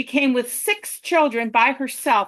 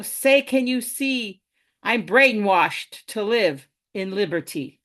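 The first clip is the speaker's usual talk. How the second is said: rhythmic, rhyme-driven poem recital; poem reading. Acted. Poet ranting to an audience about tax time, performed verse. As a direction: perform a wry verse rant on tax season. Reads own poem aloud.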